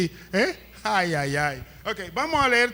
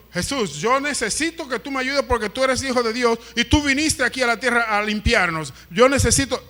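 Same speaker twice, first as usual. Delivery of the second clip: acted petition; 3 semitones higher than usual. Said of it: "Pero le dijo".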